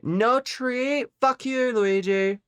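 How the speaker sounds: very high, indignant mock shout; hammed-up high outrage; mock outraged squeal. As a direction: squeal in fake fury.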